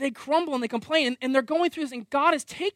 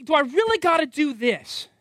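whiny protest; 4 semitones higher, 4 dB louder than usual. Retold or imitated. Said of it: "we're fighting for control".

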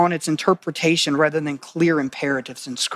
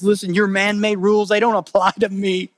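defiant Jesus; 4 semitones higher than usual. Acted. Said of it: "what Jesus is saying".

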